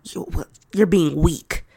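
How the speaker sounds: imitating her old harsh inner critic; a hint of a cold inner critic, slowing at the end; harsh self-scolding. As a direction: scold yourself for crying, mock-stern. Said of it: "And I'd be like".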